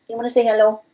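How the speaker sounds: high, cooing voice for the cat. Real, not acted. Owner coaxing her cat to greet viewers, baby talk.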